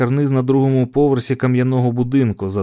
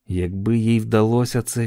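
plain reading voice

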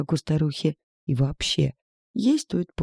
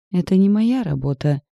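condescending; 5 semitones higher, 5 dB louder than usual. A narrator's reading. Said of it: "снисходительно процедил мужчина".

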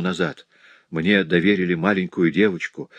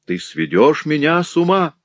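higher, breathless cry; feigned passion; 9 semitones higher, 4 dB louder than usual. A narrator's reading. Cecily pretending rapture to Jacques, higher cry. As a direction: fake rapture.

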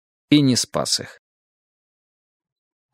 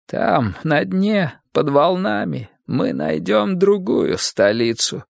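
solemn farewell; 6 semitones higher, slower than usual. Acted. Grandmother's last words before drowning.

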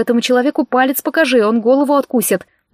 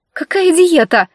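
indignant outburst, higher and louder; вспыхнув; 7 semitones higher, 4 dB louder, slower than usual. A narrator's reading. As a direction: flare up, offended and loud. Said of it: "вспыхнула я". (возмущённо вспыхнув, громче и выше)

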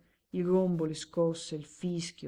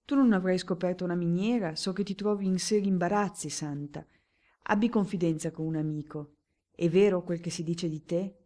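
voce più forte e incalzante, da amico che insiste; amico insistente; 6 dB louder than usual. Acted. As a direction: spingilo a confidarsi, con calore insistente. (amico premuroso che incalza)

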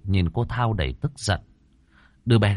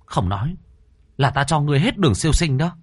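firm, raised threat, higher at the end; stern threat; 6 semitones higher than usual. Acted. Exorcist threatening the stubborn ghost girl, stern. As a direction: warn the child ghost with authority. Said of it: "mà quát".

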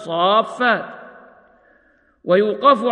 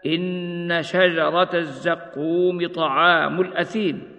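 slow, measured tartil chant; slow Quranic recitation; slower than usual. Acted. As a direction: recite it slowly with tajweed. Recites verse in tajweed style.

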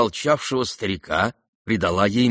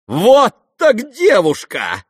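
high, loud, slow cry; shouted delight; 13 semitones higher, 8 dB louder, slower than usual. A narrator's reading. Nastasya cheering Varya's boldness, shouting. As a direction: call it out admiringly. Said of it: "крикнула Настасья Филипповна".

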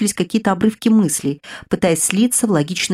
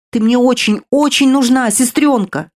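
tearful outcry; 5 semitones higher, 4 dB louder than usual. Acted. Sister cries over unconscious girl.

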